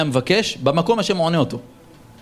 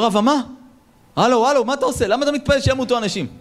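shocked rebuke; 7 semitones higher than usual. Acted. Rabbi shocked at the prayer.

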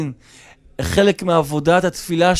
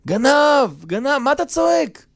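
high-pitched acted squabble; quarrel yelling; 8 semitones higher than usual. Guest and host trade yells over wallet, heated. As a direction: fire it out high, mock outrage.

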